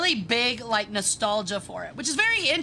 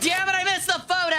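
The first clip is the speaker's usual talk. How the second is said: frustrated outburst; 7 semitones higher, faster than usual. Real, not acted. Frustrated at missing the photo.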